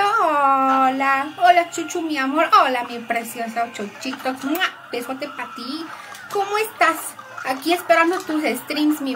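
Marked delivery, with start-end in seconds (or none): 2.6-5.9 tender greeting. Real, not acted. Sweet greeting, blowing a kiss.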